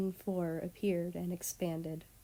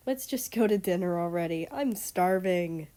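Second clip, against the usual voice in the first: impatient whine; 6 dB louder than usual. Acted. Girl impatient, hungry.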